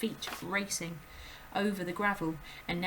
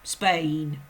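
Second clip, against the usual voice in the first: loud, gruff impatient father; Mister Wormwood; 3 semitones lower, 9 dB louder than usual. A narrator's reading. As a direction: bark orders like a rude dad. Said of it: "her father said".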